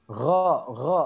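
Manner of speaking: Gho with a snoring rasp in the throat; ghain berdengkur. Shown as a demonstration. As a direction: snore lightly into each Gho. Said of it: "kayak ada ngoroknya". (Gho diucapkan seperti ada dengkurnya)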